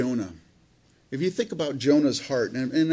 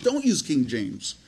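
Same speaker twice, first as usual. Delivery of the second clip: slow, matter-of-fact answer to an excuse; firm rebuttal; slower than usual. Real, not acted. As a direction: dismiss the excuse slowly and plainly. Preacher answers the imagined excuse.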